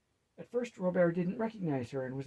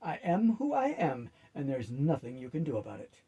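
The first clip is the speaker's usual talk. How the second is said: grinning. Acted. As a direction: say it through a wide grin. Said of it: "with a face-splitting grin".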